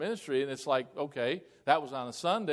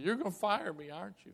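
imitated tearful, higher-pitched worry; tearful secretary; 5 semitones higher, 4 dB quieter than usual. Secretary fearing her new pastor will fire her, tearful. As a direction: lightly mimic a tearful woman's anxious question. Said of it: "She starts crying".

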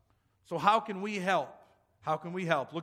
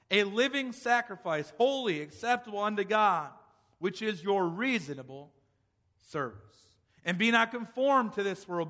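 solemn scripture reading. Acted. Preacher reads the scripture aloud.

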